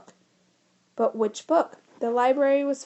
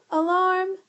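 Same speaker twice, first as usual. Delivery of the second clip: high, loud mechanical alarm call; robot alarm; 8 semitones higher, 5 dB louder than usual. A narrator's reading. The computer sounding its alarm, high and mechanical. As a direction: blare it like a siren.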